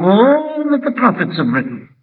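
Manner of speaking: reproachful quote stretching the word "all"; stress on ALL. Retold or imitated. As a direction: lean hard into a long "all". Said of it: "the emphasis there is on the word all".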